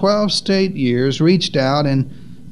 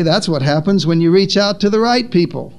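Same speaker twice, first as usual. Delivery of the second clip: approving answer; 2 semitones higher than usual. Acted. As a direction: lift the pitch steadily into "right people". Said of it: "Jesus would say".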